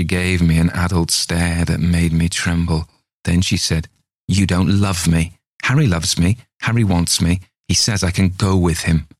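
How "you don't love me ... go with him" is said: lightly voiced child, flat accusation; a hint of an eerie child; cold little girl. Little girl accuses her mother, understated cold child voice.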